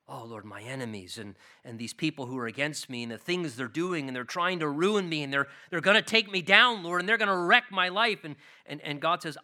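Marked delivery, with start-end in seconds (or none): 0.1-8.2 rising panicked plea. Acted. Believer voiced panicking about enemies.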